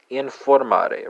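"informare" said slowly in Italian; slow Italian demo. Shown as a demonstration. Teacher slowly modelling "informare" for Italian learners. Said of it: "let's go from German to Italian".

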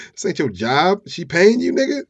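high, loud incredulous questions; mock pissed off. Fiancee asking John if he's paid, mock outrage. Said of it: "Sherry was a little pissed off".

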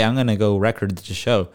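"record" as RECord, stressed at the start; swapped stress. Shown as a demonstration. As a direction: say the verb "record" like the noun, REC-ord. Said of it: "technically, you could say".

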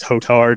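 Hotard said slowly and distinctly; demonstrated name. Retold or imitated. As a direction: say Hotard carefully, as if teaching it. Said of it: "That's how you say it".

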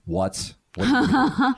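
sharp annoyed "what do you mean"; suddenly irritated and snappy. Retold or imitated. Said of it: "when they get, like, annoyed or angry".

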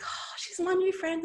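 put-on high, bright child voice; five-year-old daughter at the park, high and happy; happy little girl. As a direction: proudly announce a new friend. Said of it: "my daughter's like".

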